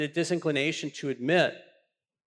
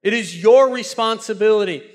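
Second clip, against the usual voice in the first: proclaiming God; 4 semitones higher, 5 dB louder than usual. Retold or imitated. God's voice, preacher building.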